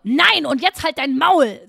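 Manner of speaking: loud, slow mock-furious shutdown; hammed-up angry refusal; exasperated outburst. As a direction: snap back loudly, stretching the words. Imagined outburst at receptionist.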